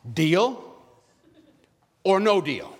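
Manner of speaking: Deal or no deal asked like a game show host. Retold or imitated. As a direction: put the choice to them like a TV host. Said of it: "what Howie Mandel says".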